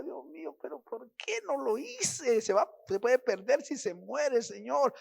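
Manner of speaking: a hint of crying, begging God; tearful prayer. Son praying for his unsaved father, lightly tearful. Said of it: "Si lloraba, decía".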